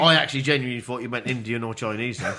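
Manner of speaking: talking with a mouth full of biscuit. Real, not acted. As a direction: talk through a mouthful. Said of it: "he's got chocolate biscuits in his mouth".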